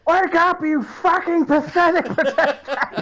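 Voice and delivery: loud, high furious wake-up yell; angry yelling. Acted. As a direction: scream at him to get up. Character yelling to wake ally.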